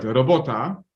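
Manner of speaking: robota said the Polish way, ro-BO-ta with a rolled r; Polish word. Shown as a demonstration. Surgeon telling colleagues the word is the same in Polish, Polish pronunciation. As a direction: say robota as a native Polish speaker would. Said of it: "in Polish language, it's the same word".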